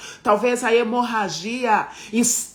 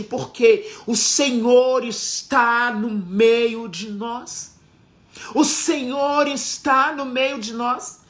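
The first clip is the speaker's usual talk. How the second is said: mais alto e mais agudo, pregando com força; pregação inflamada. Acted. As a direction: proclame com fervor à congregação. Pregação em alta intensidade. (pregação fervorosa e alta)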